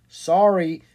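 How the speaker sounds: a touch of the unbending official; lightly voiced official; official-sounding voice. A narrator's reading. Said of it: "came an official-sounding voice".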